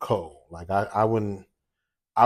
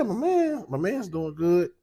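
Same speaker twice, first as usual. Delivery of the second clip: proud hype; 10 semitones higher, slower than usual. Real, not acted. Proud dad hyping his son.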